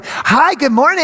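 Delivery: bright, high, loud early-bird hello; perky five a.m. hello; chirpy morning greeting. Retold or imitated. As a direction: sing out hello like a cheerful early riser. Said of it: "you're the five A M person going".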